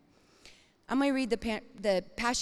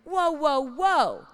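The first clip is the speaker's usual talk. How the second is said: loud, higher whoa of realization; surprised; 4 semitones higher, 7 dB louder, slower than usual. Retold or imitated. Preacher reliving her discovery in the Bible, startled. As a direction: stop short in astonishment. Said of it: "I read the Bible and I went".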